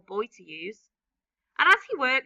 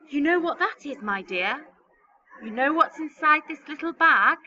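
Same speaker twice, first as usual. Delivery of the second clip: put-on creaky old man; 4 semitones higher, 6 dB louder than usual. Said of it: "very slow and creaky".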